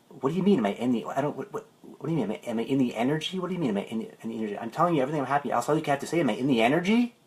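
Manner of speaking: a mildly fed-up, pleading client; frustrated. Retold or imitated. Bobby West exasperated with his life coach, mild mock frustration. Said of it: "Bobby West was getting really frustrated".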